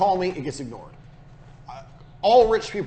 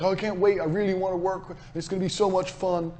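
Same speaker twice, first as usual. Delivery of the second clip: mock eager client talk; 3 semitones higher, 3 dB quieter than usual. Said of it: "Don't be going to see clients and like".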